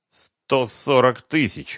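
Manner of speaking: slow, grudging confession of the price; squeezed out. A narrator's reading. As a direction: drag the number out against your will. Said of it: "выдавил Семён".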